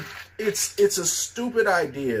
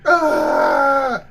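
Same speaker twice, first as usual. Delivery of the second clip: high, loud, wheezing laughs; pained laughing; 10 semitones higher, 6 dB louder, much slower than usual. Real, not acted. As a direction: gasp out the laughter. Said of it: "this hurts so bad".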